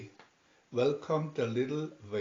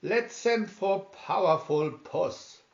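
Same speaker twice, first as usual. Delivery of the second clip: high, loud, eager pitch; eager cat; 5 semitones higher, 5 dB louder than usual. A narrator's reading. Smartest cat rallying the other cats, louder and higher. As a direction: jump up and pitch the plan excitedly. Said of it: "jumped up and said".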